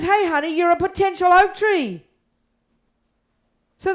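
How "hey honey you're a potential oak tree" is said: higher, louder fond address; a higher, affectionate Buddha voice; Buddha speaking kindly. Retold or imitated. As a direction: lift the voice, gently coaxing a student. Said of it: "Buddha says".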